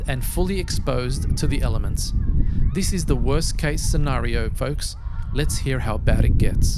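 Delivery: loud wind blasting the mic; speaking into an unshielded mic outdoors. Real, not acted. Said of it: "This is why we don't record without wind protection".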